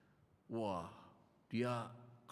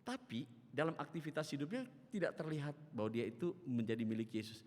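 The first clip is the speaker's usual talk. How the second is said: ordinary talk, nothing marked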